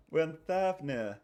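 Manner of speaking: mock British accent. Streamer still doing the British voice between laughs. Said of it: "You want me to do a British impression?".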